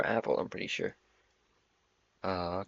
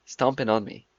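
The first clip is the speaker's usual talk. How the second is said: put-on Northern English accent. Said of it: "that was a good imitation".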